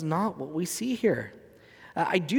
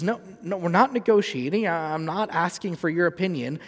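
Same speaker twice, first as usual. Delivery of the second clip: firm mother's retort; 3 semitones higher, 4 dB louder than usual. Retold or imitated. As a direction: shut down the bargaining, loud and firm. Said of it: "She goes".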